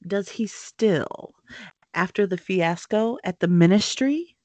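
slow, doubting jab at her boast; slow, delicate disbelief. Acted. Snape mocking Bellatrix's loyalty, slow and disbelieving. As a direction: stretch out the doubt, then lift at the end. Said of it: "his voice delicately inflected to suggest his disbelief".

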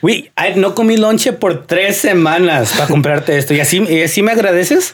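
dad guilt-trips his son over a gift, mildly wounded; mock guilt-tripping dad. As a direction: play the wounded father, half in Spanish. Voicing dad guilt-tripping in Spanish.

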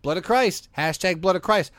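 casual bro hype; frat bro. Retold or imitated. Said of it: "she spoke like a frat boy".

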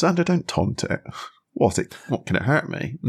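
lightly voiced Giles, a touch prim; a hint of stuffy English librarian; quoting Giles with a light put-on voice; Giles quote. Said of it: "Giles' response is".

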